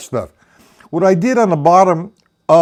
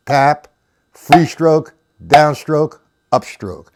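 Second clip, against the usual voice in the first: calling strokes in tempo; slower than usual. Shown as a demonstration. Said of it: "Do that for a little bit".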